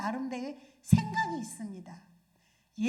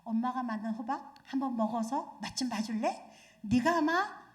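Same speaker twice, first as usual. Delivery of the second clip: put-on mother talking calmly to her child; gentle mother; 3 semitones lower than usual. Shown as a demonstration. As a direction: coax the child tenderly. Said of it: "이렇게 말할 때".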